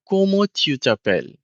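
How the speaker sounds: Comment tu t'appelles said the French way as a question. Shown as a demonstration. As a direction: model the French question for the learner. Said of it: "you say".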